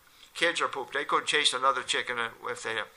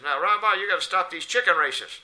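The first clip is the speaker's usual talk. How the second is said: stern priest; 6 semitones higher, 7 dB louder than usual. Retold or imitated. Priest confronts rabbi in joke.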